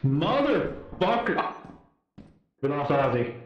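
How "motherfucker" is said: slow, frustrated groan of a curse; drawn-out curse. Real, not acted. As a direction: drag the swear out in dismay. Teammate just died.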